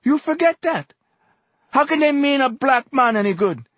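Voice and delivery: slow, high, loud accusing cries; anguished harangue. A narrator's reading. Exhorter berating a black man for joining whites, impassioned shouting. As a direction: drive every accusation home at full force.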